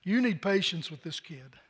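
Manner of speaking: soft, low self-talk, fading away; quiet inner voice. Retold or imitated. Father telling himself to be patient, hushed and low. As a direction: say it to yourself as a hushed realization. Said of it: "all of a sudden I realized".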